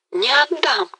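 the climax of her vow; passionate peak. A narrator's reading. Galina vows to keep Mazepa, at full passion. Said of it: "всё горячее и горячее".

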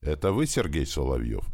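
ordinary delivery

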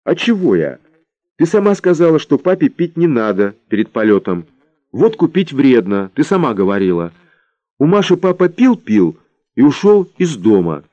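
put-on high, whiny little girl; thin whiny child voice. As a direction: whine it like a sulky little girl. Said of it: "тоненькая плаксивая нотка".

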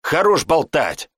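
a fierce, hissed command; angry hiss. A narrator's reading. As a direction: snap at them to shut up, hissing. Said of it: "злобно прошипела Шантра".

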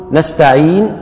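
نستعين with the final ين held two counts, briefly; two-count hold. Shown as a demonstration. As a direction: stop on نستعين with a short two-beat stretch. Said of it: "نقول".

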